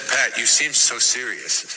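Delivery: slow, imitating Mother Teresa's heavy accent; a hint of Mother Teresa's accent, said slowly. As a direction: lightly voice her heavy Albanian-tinged accent. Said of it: "She had a real heavy accent".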